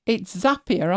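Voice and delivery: Zapier with short a, ZAP-ee-er. Shown as a demonstration. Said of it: "as in to zap something".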